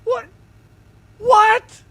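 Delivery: high squeaky what; loud falsetto what; shocked. Real, not acted. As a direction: yelp it out in disbelief. Surprised by Spotify extension news.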